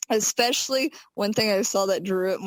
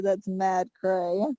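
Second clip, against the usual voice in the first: slow, drawn-out that's mad cray; teasing friend's slang, slowly; imitating Tia; 2 semitones lower, slower than usual. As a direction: mimic her Yonkers slang slowly. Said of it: "in the words of Tia".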